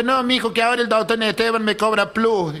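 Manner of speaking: high-pitched acted old lady; caricatured old woman, pitched well up; old woman explaining.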